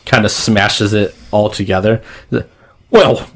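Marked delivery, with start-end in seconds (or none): 2.9-3.3 high, loud blob-monster voice; loud, high creature voice; giant blob creature. Acted. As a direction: call to your henchmen as a big alien boss. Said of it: "he is this giant, bulbous, blobbyish".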